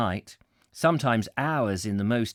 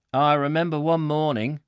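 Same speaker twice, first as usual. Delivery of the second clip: higher Yorkshire voice starting an anecdote; put-on Yorkshire accent; 5 semitones higher, 4 dB louder than usual. Warehouseman begins a story for Jack, Yorkshire accent. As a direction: open the tale in broad Yorkshire. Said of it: "this aggressive Yorkshire voice".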